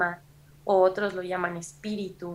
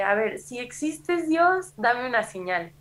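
slow, higher pleading call to God; tearful plea to God; 4 semitones higher than usual. Retold or imitated. Crying alone in the rehab bathroom, she begs God aloud. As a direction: beg God for a sign, close to tears. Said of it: "empecé a llorar y, y dije".

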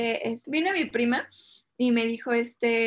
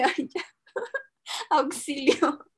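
mock panic; 5 semitones higher, slower than usual. Retold panic at guttural noises.

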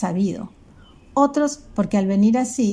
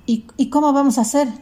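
bewildered father; 6 semitones higher, 3 dB louder than usual. Acted. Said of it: "preguntó el papá desorientado".

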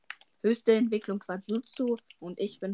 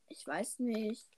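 slow hesitant whisper; 7 dB quieter, much slower than usual. Real, not acted. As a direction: breathe it slowly, unsure. Unvoiced hesitant aside.

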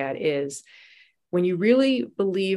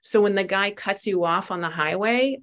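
challenging, teasing; 3 semitones higher than usual. Retold or imitated. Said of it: "what do you really believe".

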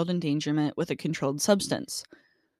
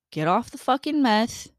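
mock-stern telling-off, louder and slower on the insult; scolding paraphrase; 3 semitones higher, 5 dB louder than usual. Podcaster bluntly paraphrasing the judge to a meth user, scolding. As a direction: scold them, leaning hard into the final insult.

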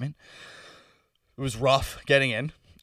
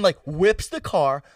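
normal talking voice

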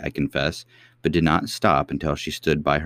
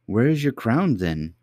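cartoon princess; 6 semitones higher than usual. A narrator's reading. Princess asks.

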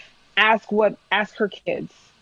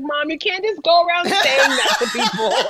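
mock exasperated teen; 8 semitones higher than usual. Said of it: "I'd be like".

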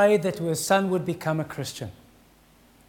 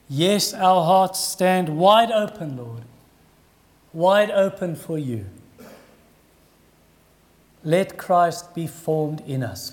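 closing prayer. Real, not acted. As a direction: pray over the congregation.

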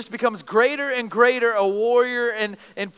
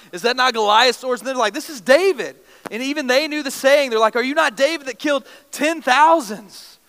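louder, higher excited crowd voices; startled people calling out who he is; surprised recognition; 3 semitones higher, 5 dB louder than usual. Retold or imitated. Philistines recognizing David, loud excited surprise.

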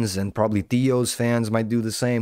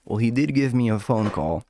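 much higher, breezy mocking voice; Kalila impression; 5 semitones higher than usual. Mocking Kalila explaining the phone call, high and breezy. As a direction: chirp it up high like you're brushing it off. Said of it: "I could do Kalila and be like".

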